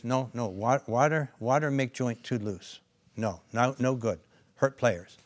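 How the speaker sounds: loud, slow hint of a European accent; half-hearted European accent, insisting firmly; broken-English European coach. Coach warning that water hurts players, loud faint European accent. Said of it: "I can't do his accent".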